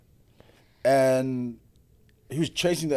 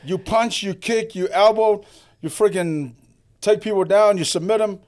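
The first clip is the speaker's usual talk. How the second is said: retold rebuke; 7 semitones higher than usual. Retelling his angry rebuke.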